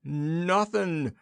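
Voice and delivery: high gulped, doleful word. A narrator's reading. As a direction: swallow it sadly. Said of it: "gulped the general dolefully".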